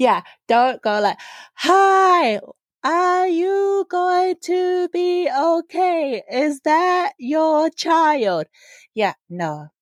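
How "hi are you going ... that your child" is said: very high, shrill, very slow yell, "hi" stretched. Showing how not to talk to someone who doesn't share your language: loud, slow over-talking. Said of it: "do not be yelling".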